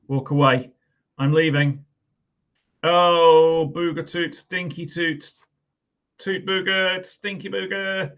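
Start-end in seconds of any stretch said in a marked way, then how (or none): 2.8-8.1 higher, giggly reading of rude words; teacher reading gross words for laughs; gleeful silly. Acted.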